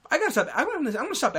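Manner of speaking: laughing at himself. Real, not acted. Vlogger laughing at his own awkward date question. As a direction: laugh it off as you catch yourself.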